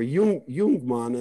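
Jungmann as "Yoong-mahn", J said as Y; correct German pronunciation. Shown as a demonstration. Man wanting his surname said correctly, German pronunciation of Jungmann. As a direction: say Jung, Jungmann with German Y sound. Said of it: "pronounce Youngman correctly".

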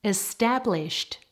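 "Established" ending in a clear T; final T sound. Shown as a demonstration. Teacher models a past tense ending, final T on "Established". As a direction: finish "Established" on a crisp T, not D. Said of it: "getting a T sound on the end".

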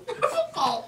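talking through a mouthful of crackers; words mushed by dry crackers; mouth full. Real, not acted. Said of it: "I sounded like an old person without any teeth".

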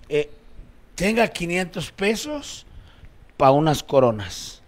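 put-on slow, halting drunk offer; drunk compadre. Drunk compadre offering money for coronas, drunk and slow. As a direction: hand it over in dragged-out drunk phrases. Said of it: "De borrachos".

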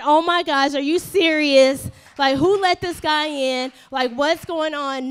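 mildly exasperated complaint; irritated. Acted. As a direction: act put out and disbelieving. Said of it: "Not irritation, not".

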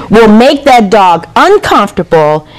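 laughing through it. Real, not acted. Laughs while quoting.

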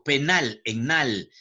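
slow "Penal", weight on "nal"; prosodic stress. Shown as a demonstration. Teacher demonstrating prosodic accent, "Penal" stressed on "nal". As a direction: draw out "nal" as the strong syllable. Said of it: "es el acento prosódico".

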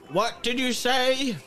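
put-on high, slow old man's query; hard-of-hearing old pirate, stretched out; old blind pirate. Old man answering a call from behind, high slow pirate voice. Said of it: "He goes".

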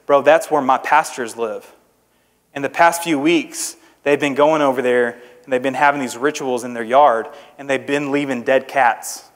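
low, slowed, hushed report; confiding mailman. Retold or imitated. Mailman confides about rituals.

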